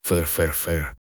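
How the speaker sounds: soft snorting cat. Acted. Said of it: "зафыркала".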